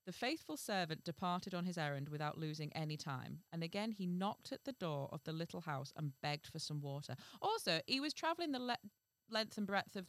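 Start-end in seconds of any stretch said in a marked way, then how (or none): 0.0-7.2 measured fairy-tale reading; story narration. A narrator's reading. Reading a fairy tale to the co-host, measured narration. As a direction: read it out as a storyteller.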